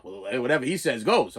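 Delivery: put-on a mother waving the kid away to dad, low; low mom voice. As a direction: brush the kid off, deep and flat.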